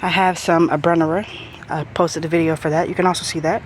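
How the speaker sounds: slightly winded, short breaths between phrases; talking while catching her breath. Real, not acted. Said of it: "Sorry, I'm out of breath".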